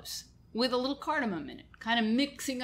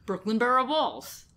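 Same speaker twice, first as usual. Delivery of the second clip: put-on Brooklyn accent; 3 semitones higher, 4 dB louder than usual. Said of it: "that's so much fun to say".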